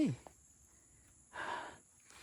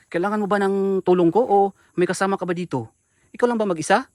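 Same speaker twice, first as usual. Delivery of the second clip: raised voice offering help; loud, urgent offer of help; calling out; 6 dB louder than usual. Real, not acted. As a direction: project across the clearing. Calling out to crying woman.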